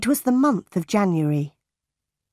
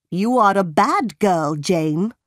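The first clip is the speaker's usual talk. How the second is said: stern scolding. A narrator's reading. Aunt rebuking Jane after the fight, sternly. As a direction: scold a naughty child.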